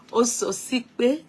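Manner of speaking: "Ososipe" said slowly through a laugh, rising at the end; retry "Ososipe" slowly, laughing at yourself. Shown as a demonstration. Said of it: "Bí mo ṣe pronounce orúkọ yín".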